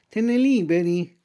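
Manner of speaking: a hint of the cat echoing. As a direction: repeat it flatly. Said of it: "ripeté il gatto".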